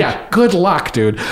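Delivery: sarcastic good luck. Retold or imitated. Actor privately doubting the director, sarcastic. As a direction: humour him, not believing a word. Mocking the director's hopes inwardly.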